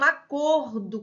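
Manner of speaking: "acordo" with a closed O, "a-CÔR-do". Shown as a demonstration.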